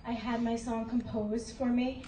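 breathless after dancing; out of breath. Real, not acted. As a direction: talk while catching your breath. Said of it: "sorry, I'm out of breath".

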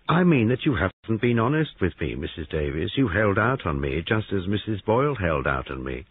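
a triumphant lawman savoring the reveal; smug detective. Acted. Detective scolding the woman for her foolishness, smug and brisk.

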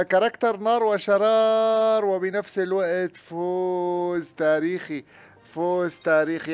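drawn-out loud announcement; slow excited proclaiming. Real, not acted. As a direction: savour the historic win. Announcing historic win. (إعلان حماسي بطيء)

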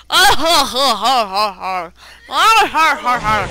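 mock laughing. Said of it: "he's just like".

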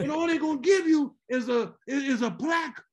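dad ranting about the church's money, high-pitched; indignant dad. Retold or imitated. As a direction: rail against the donation. Father voiced in the story.

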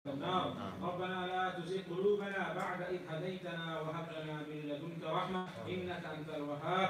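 rapid Arabic dua flowing into pleading English prayer; supplication prayer. Acted. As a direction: lead the congregation in heartfelt dua.

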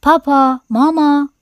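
high, loud toy-doll squeal; screeching doll. A narrator's reading. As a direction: squeak both words out, pitched right up. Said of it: "عروسک جیغ کشید".

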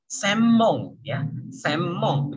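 "Semmong" slowly with a long doubled m; n read as m. Shown as a demonstration. Teacher models the reading, long m in "Semmong". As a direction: hold the lips shut through the mm of "Semmong". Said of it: "bacanya jadi em".

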